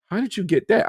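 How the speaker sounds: high-pitched amazed question; retold astonishment. Friend looking at gamer's screen, astonished.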